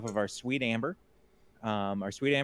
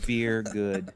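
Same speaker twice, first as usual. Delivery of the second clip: simple caveman talk; lightly voiced caveman. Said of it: "In my best caveman beer voice".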